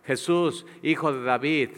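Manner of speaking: loud, high cry for mercy. Retold or imitated. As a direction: call out to Jesus across the crowd, high and loud. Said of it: "y le grita".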